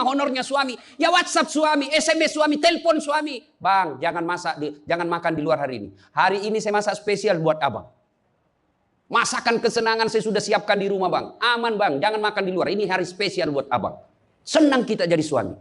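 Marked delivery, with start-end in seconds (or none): 3.6-14.0 a wife gently sweet-talking, unhurried; wife voicing her message to her husband, gently coaxing him home for a special meal.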